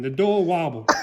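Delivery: usual speaking voice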